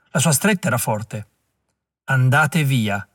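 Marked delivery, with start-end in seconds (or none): 2.0-3.1 slow, far-off voice with the weight on andate; distant repeated command. Acted. The old man repeats his warning to Klug, slow and distant. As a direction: drag out andate via as if from far away. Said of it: "ripeté. La voce veniva da lontano".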